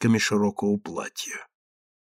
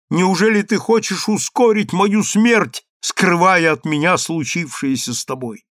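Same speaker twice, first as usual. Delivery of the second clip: desperate plea; 6 semitones higher, 4 dB louder than usual. Acted. Mother pleads desperately.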